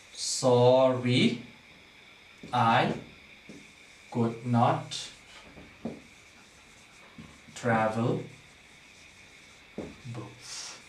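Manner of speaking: slow, separated words fading out. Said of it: "examine the second line".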